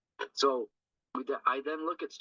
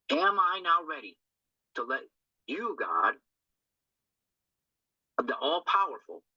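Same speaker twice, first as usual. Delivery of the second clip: raised, earnest prayer to God; prayerful meditation; 2 semitones higher than usual. Acted. Speaker turns the step into a prayer, reverent and earnest. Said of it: "I'm in meditation".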